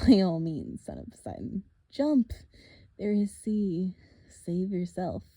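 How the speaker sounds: a lightly voiced, taunting monster; mock them, a touch sinister; menacing villain. Villain taunting the half-blood at the cliff edge, lightly menacing.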